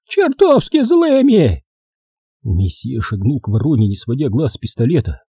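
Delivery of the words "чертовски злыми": high, slow, creaking crone; creaky crow voice. A narrator's reading. Old crow telling the boys to be angry, high and creaky. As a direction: rasp the command like a creaking door. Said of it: "проскрипела она".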